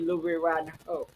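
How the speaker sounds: "Hood" said as "hoe" with no final d; joke mispronunciation. Real, not acted. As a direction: repeat the cheeky "hoe" for "Hood". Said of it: "I didn't say hood".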